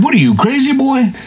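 high, excited and half-laughing; panicked outburst. Retold or imitated. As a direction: yell at himself to get out, laughing. Panicked self in the dream.

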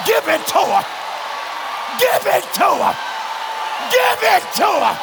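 rising shout each repeat. Acted. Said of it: "repeated, rising each time".

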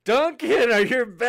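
loud, high hail to a guest; calling out. Real, not acted. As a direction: call out excitedly to someone just back on the line. Host calls out to returning guest.

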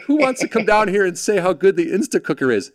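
high infomercial crowd appeal; imitating a pitchman seeking volunteers. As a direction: work the audience like a TV host. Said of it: "pitch guy".

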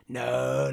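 NO stretched long in imitation; grandma's drawn-out no. Grandma refuses to go second, long drawn-out "No". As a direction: draw out "No" as she does. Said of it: "that's how she says it".

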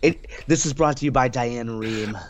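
public radio host. Acted. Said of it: "my Saint Louis Public Radio voice".

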